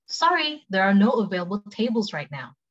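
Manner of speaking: natural-speed example for learners; quick take. Shown as a demonstration. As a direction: model it at conversational speed. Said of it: "cepet sama pelan".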